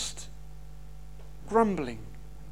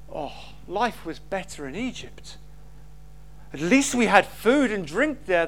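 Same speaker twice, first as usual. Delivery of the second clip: grumbling Israelites; 4 semitones lower than usual. Retold or imitated. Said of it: "they'd say".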